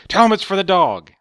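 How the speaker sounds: high, loud mock old lady insisting; mock bossy demand. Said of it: "then she's like".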